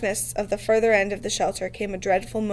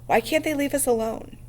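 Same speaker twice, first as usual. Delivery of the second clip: bitter; 4 semitones higher than usual. Acted. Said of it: "said Ralph bitterly".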